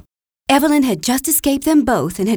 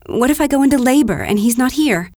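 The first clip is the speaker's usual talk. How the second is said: worries climbing higher and louder, question by question; building fear; 4 semitones higher, 3 dB louder than usual. Acted. Pregnant wife fearing for missing Henry, rising panic. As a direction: panic rising until the last line. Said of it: "I am beginning to be afraid".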